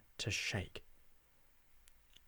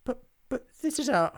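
high, halting objection; faltering protest; 13 semitones higher, 6 dB louder than usual. A narrator's reading. Hobgob protests being thrown out, high and faltering. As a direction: stutter a protest that gets cut off.

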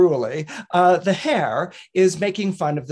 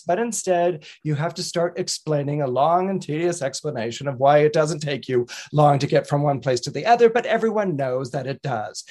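quick impatient hare; 2 semitones lower than usual. Acted. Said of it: "the hare interrupts him very quickly".

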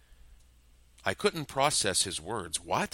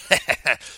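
loud, high maniacal laugh; madman laugh; 5 semitones higher, 8 dB louder than usual. Acted. Captor laughs wildly at his hostage, loud maniacal cackle. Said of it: "he laughed like a madman".

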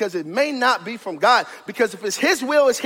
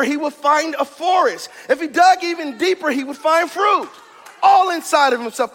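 preaching; 3 semitones higher than usual. Real, not acted. Preaches to the congregation.

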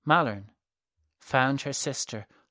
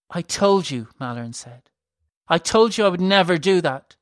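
insistent; 4 semitones higher, 6 dB louder than usual. A narrator's reading. Malern insisting.

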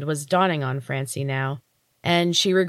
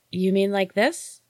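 slow, lightly voiced little fairy child; innocent, a touch slow, like a helpful kid; curious child voice; 3 semitones higher than usual.

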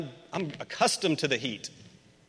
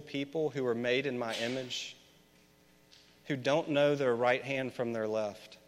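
tender God; 5 dB quieter than usual. Acted. God's tender reply.

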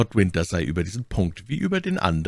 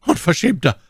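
high, indignant outburst; outraged exclamation; 9 semitones higher, 5 dB louder than usual. A narrator's reading. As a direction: cry the insult out. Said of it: "rief my Lady". (empörter Ausruf)

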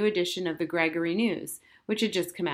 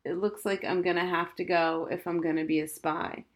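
sad. Acted. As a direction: sigh through it, defeated. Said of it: "said Harriet sadly".

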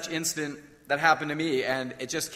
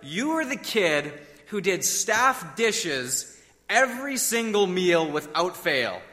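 blurted recognition; 2 semitones higher, slower than usual. Retold or imitated. Preacher suddenly places former camper, blurted recognition. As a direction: let the memory land, slow and emphatic. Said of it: "I just blurted out".

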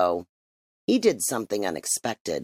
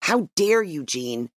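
indignant; 5 semitones higher than usual. Acted. Mother turns on the chief.

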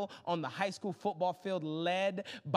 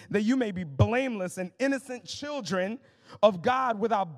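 preached scripture reading; 4 dB louder than usual. Acted. Reads scripture at full force.

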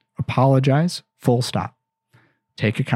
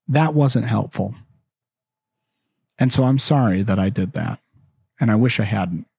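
apologetic parent; 3 semitones lower than usual. Acted. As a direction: gently own up to a past mistake. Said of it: "they just came to you".

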